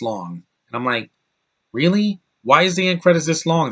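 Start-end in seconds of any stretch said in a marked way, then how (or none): 1.7-3.7 high-pitched disbelieving question; incredulous. Retold or imitated. Mock disbelief at long credits.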